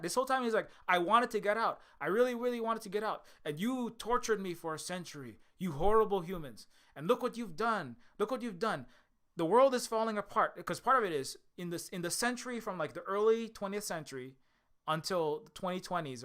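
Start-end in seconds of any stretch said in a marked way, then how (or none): 0.9-10.6 a touch higher and louder, hammed-up fury; mock angry rant. Imprisoned Sandman berating humans, mild mock anger. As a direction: rant like a wronged prisoner, half in jest. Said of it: "He's so mad".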